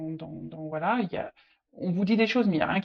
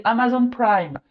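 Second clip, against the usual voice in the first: put-on English accent; 2 semitones higher than usual. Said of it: "je prends l'accent un peu anglais".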